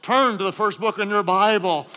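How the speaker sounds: a light pastoral preacher tone. Retold or imitated. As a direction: sound like a pastor leading a study. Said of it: "preacher voice and all".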